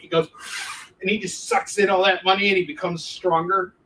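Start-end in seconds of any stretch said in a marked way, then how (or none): 0.3-1.0 big power-up breath, no words; big breathing technique. Acted. Showing the superhero's breathing technique to viewers, one big noisy breath. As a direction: suck in air like a superhero. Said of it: "this big breathing technique".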